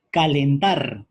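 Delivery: calentar said loud and firm, each syllable clear; emphatic example word. Shown as a demonstration. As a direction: announce calentar loudly to the class. (calentar, dicho fuerte y marcado)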